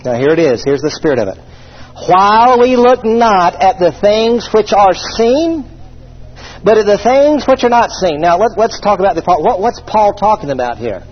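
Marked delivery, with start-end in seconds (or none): 2.1-8.2 slow, solemn verse reading; scripture reading. Acted. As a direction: read it out weighty and drawn out. Reads scripture aloud.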